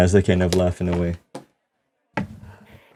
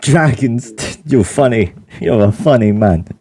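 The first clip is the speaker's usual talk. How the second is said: put-on laughing old paladin; 5 semitones higher than usual.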